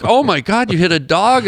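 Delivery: taken aback, imitating a concerned listener; retold surprise. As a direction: react with mock concern. Retold usual reaction to dog story.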